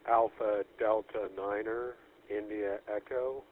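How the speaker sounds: radio call sign over static; crackly military radio. Real, not acted. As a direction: spell it out phonetically over the radio. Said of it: "Please call now, twice, slowly, and phonetically".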